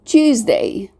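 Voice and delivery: "Tuesday" with the S voiced as Z. Shown as a demonstration. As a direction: say Tuesday as TUEZ-day. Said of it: "we pronounce it as a Z sound".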